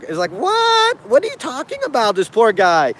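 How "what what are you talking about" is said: a much higher, startled what; incredulous. Retold or imitated. Mock reaction to the man's beanbag claim, incredulous. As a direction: throw it out in mock disbelief.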